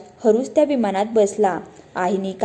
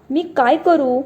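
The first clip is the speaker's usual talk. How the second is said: put-on a higher, scared boy's question; frightened plea; 4 semitones higher than usual. A narrator's reading. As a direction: ask for help in a mild fright. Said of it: "Viraj घाबरून म्हणाला". (घाबरलेला, थोडा उंच आवाज)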